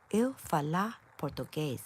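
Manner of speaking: demonstrating a Portuguese accent. Shown as a demonstration. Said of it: "I can do un Portuguese accent".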